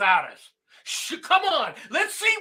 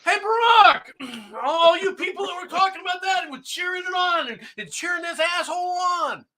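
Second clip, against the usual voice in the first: angry call-out; 5 semitones higher than usual. Real, not acted. Shouting at absent Obama.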